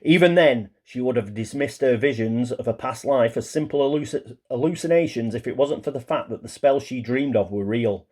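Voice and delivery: lively read-aloud of a backstory; story narration. A narrator's reading. Player reading out the waitress witch's past life, narrating. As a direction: narrate it like a pulp tale.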